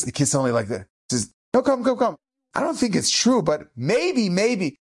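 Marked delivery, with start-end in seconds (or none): 1.5-4.8 put-on higher, gentle beckoning to a shy boy; coaxing rabbi. Rabbi gently coaxing a shy boy: higher, playful beckoning.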